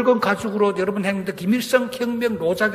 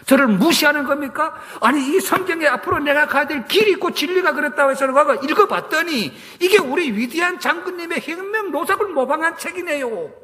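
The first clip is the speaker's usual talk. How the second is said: retold protest; 3 semitones higher than usual. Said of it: "목사님에게 이 성경책을 던지며 따졌습니다".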